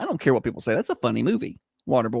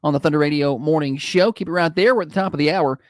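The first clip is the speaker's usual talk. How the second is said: warm radio ad read; warm announcer; 2 semitones higher than usual. Acted. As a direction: sell it like a friendly DJ. Host reads live ad.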